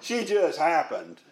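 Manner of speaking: drawn-out words with a grin; grinning, playful understatement; tongue in cheek. Acted. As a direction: say it slowly, with a knowing chuckle. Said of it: "he's just grinning while he does it".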